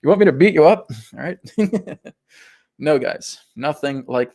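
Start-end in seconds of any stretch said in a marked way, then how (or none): 0.0-0.9 lightly voiced mock-threatening God; playful threat, pitched up with a laugh; giant bearded God. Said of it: "a giant bearded God in the sky".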